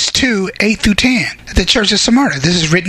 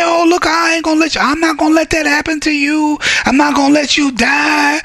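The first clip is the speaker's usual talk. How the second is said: mock imagined Jesus; 7 semitones higher than usual. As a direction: toss it off like an easy promise. Preacher voicing an imagined Jesus.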